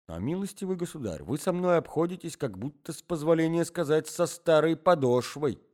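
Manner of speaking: pleading, a touch of meek despair. A narrator's reading. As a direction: plead gently, hurt but humble. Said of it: "в припадке самого кроткого отчаяния".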